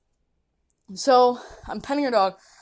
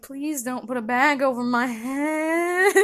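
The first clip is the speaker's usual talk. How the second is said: slow, whiny hammed-up pleading; mock terrified plea; 4 semitones higher, slower than usual. To the puppy's owner, mock terrified pleading. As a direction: beg like you're about to be kidnapped. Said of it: "And I'm like".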